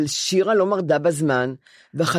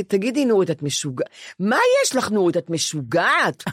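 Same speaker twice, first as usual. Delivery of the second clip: mock psychiatrist yell. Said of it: "הוא צועק עליי".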